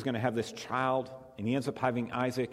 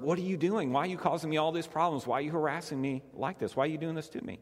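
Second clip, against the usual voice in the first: mama bird voice; 4 semitones higher, faster than usual. Retold or imitated. Mama bird complains to lumberjack.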